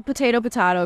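potato first with long AY, potato then with AH in the middle; alternate pronunciations. Shown as a demonstration. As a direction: say potato two ways, "po-TAY-to, po-TAH-to". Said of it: "how do you pronounce it".

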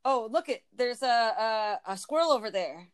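"look it" run together as one word; casual, run-on "look it"; Michigan "look it". Shown as a demonstration. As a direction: say "look it" with no "at" between. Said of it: "We don't say, "Look it".

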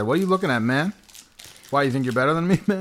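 confrontational street tough voice; tough guy. Pretend. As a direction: square up like a bar tough. Tough guy taunting the crisps.

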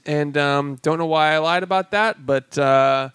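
hesitant, drawn-out sheepish admission; lightly voiced woman breaking awkward news; Salma Hayek. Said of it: "comes up and she goes".

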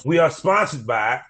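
practised show-opening announcer read; podcast host intro. Acted. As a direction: greet the listeners big, then roll through the plugs. Reads podcast intro and sponsor plug.

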